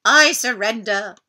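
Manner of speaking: a beaten monster grovelling; pleading dinosaur. Acted. Defeated dinosaur surrenders.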